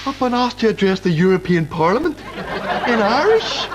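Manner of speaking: horrified father realising; dawning horror. Acted. Dad realising the task.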